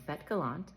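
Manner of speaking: "Fête Galante" said the French way, nasal final vowel; "Fête Galante" with French vowels and silent final e; French pronunciation. Real, not acted. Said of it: "pardon my French accent".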